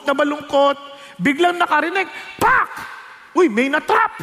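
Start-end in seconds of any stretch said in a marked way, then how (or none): 2.3-2.7 sharp high snap of a trap. Acted. Preacher imitating the mouse trap snapping shut.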